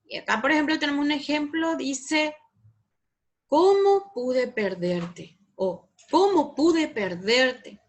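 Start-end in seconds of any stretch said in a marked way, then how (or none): 3.5-5.4 "Cómo pude perderte" slow and loud, emotive; exclamatory intonation. Shown as a demonstration. Teacher reading an exclamation example, slow and emphatic. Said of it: "El tono es muy importante". 6.1-7.8 "Cómo pude perderte" slow, loud, falling at the end; exclamatory intonation. Shown as a demonstration. Teacher repeating an exclamation example, slow and emphatic. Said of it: "El tono es muy importante".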